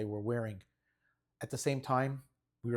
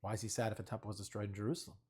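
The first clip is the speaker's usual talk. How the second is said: a hint of a puzzled kid, quicker and softer; 2 semitones lower, 6 dB quieter, faster than usual. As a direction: rush the confused question like a child. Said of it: "They said".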